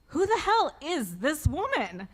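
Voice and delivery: a bewildered, hammed-up who is she; stunned inner thought. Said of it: "I thought in that moment".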